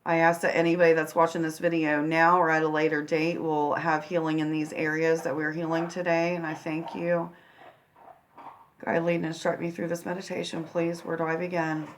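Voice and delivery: soft, unhurried prayer with long pauses. Real, not acted. Healer praying to Source and angels before a guided meditation, quiet prayer. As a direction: pray quietly, asking for guidance.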